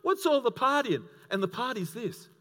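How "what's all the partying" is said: put-on indignant older brother. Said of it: "the goody two-shoes son's going".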